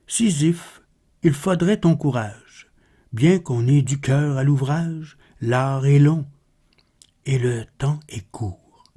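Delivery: measured, solemn poem reading; poetry recitation. Acted. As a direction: recite the verse with deliberate pauses between phrases. (récitation de poème, posée et solennelle)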